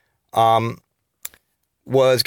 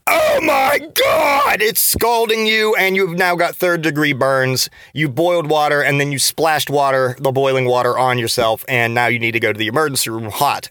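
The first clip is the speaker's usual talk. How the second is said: panicked exclamation. Retold or imitated. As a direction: act scalded and panicking, pitch leaping up on "Oh my God". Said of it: "I mean hot like".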